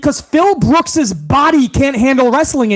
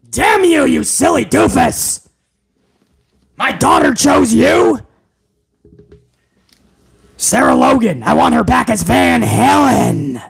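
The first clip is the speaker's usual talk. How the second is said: Vince McMahon impression. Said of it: "Yes, Vince".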